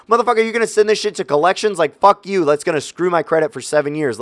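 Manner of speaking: high-pitched indignant disbelief; mock fury at the bill collector; incredulous angry retort; retold outrage. Ranting at collections call quote.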